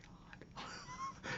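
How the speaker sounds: breathless stunned whisper; a shocked aside whisper. Retold or imitated. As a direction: whisper it under your breath in disbelief. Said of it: "was like".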